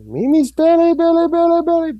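very high cooing pet voice. Real, not acted. Talking to the dog.

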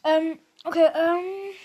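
voiceless whispered okay. Real, not acted. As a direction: whisper it to yourself. Muttering to herself.

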